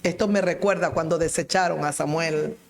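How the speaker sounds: ordinary talk, nothing marked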